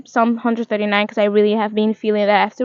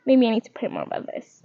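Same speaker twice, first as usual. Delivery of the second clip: laughing whisper; 6 dB quieter than usual. Real, not acted. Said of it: "laughs whisper".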